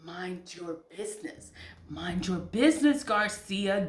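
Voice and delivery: firm self-talk, a touch of scolding; telling herself off, firmly; stern self-scolding. Shown as a demonstration. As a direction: scold yourself by name. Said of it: "I have to tell that to myself".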